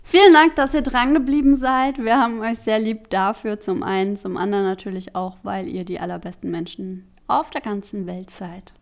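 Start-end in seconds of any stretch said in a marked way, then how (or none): 0.0-3.6 cheery outro. Real, not acted. Outro thanks to listeners.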